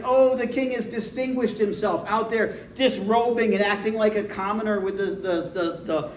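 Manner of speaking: high, mocking complaint; scornful wife. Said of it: "And she's like".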